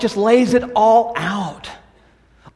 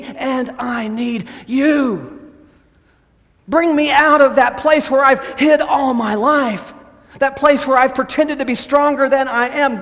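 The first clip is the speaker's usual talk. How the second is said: higher, louder shout of longing; crying out in prayer; 7 semitones higher, 4 dB louder than usual. Acted. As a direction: call out to be freed.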